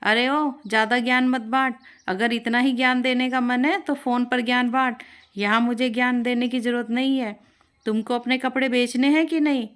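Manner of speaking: annoyed mother-in-law telling off a shopkeeper; angry. Acted. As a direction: snap at the know-it-all shopkeeper. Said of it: "कुसुम गुस्से में बोली".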